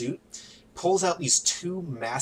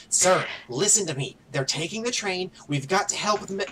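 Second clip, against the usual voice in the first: higher, urgent plea; a touch of panic, voice raised in pitch; panicked pleading; 6 semitones higher than usual. Acted. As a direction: plead with a superior, mildly panicked. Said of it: "just clearly in a panic".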